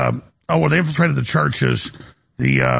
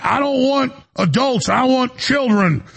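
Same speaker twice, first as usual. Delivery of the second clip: higher and slowed, a whiny put-on; mock creepy demand; 7 semitones higher than usual. Guest mimics the man demanding kids from the undercover cop, higher and slow. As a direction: play the creep whining to be given kids. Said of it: "And he's like".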